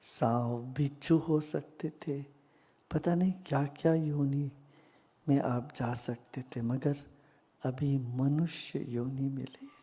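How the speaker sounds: calm, measured meditation voice with long silences; guided meditation. Real, not acted. Teacher guiding meditators into gratitude for body and breath, calm guided meditation. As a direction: guide them gently inward, leaving long pauses.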